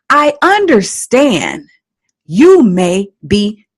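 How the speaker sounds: slow, steady and gentle; calm reassuring parent. Shown as a demonstration. Coach shows parents what to say to a crying child, slow and calm. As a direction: model how a patient parent answers. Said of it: "Now you can say".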